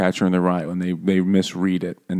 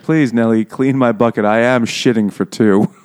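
louder, mock-genteel plea; mock lady's request; 3 semitones higher, 4 dB louder than usual. Mocking the heroine asking Nelly to clean up, prim. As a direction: ham up a prim lady asking her servant. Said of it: "She's like".

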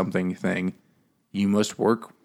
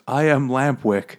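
donkey speech; 5 semitones higher, 4 dB louder than usual. Retold or imitated. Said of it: "In donkey speech".

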